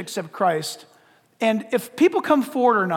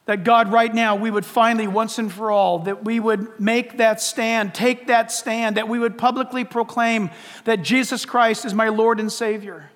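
earnest, insistent prayer leading; public prayer; 2 semitones higher than usual. Real, not acted. Preacher leads the congregation in prayer to the Father, earnest prayer. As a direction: pray aloud for the whole room in phrase after phrase.

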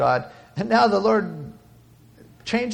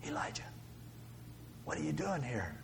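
very soft, slightly lowered voice; whispered; 3 semitones lower, 15 dB quieter than usual. Acted. God whispering to Elijah at the cave, whispered. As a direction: whisper it gently, with space after the name. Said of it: "what did God whisper?".

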